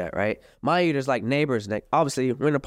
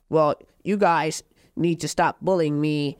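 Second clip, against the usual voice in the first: mock girlfriend video. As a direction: parody her victim act.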